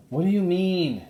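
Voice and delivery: high puzzled question; puzzled boy. Acted. Jack asking Annie what she means, puzzled. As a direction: ask it baffled.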